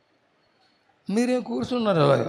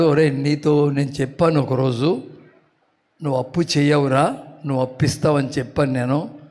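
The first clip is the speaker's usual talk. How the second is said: voice of God; 6 semitones lower than usual. Retold or imitated. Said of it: "అన్నాడు దేవుడు".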